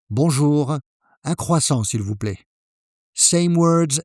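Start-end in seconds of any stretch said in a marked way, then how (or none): 0.1-2.4 friendly greeting, softening at the end; polite and warm. Shown as a demonstration. Customer greeting the baker, warm and polite. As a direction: greet warmly, then ask politely. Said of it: "Here's the right way".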